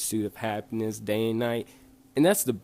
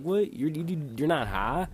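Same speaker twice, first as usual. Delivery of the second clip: retold surprise, high on "What"; incredulous; 4 semitones higher than usual. Storyteller replaying his reaction to sober friend, incredulous. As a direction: pitch up in mild mock disbelief.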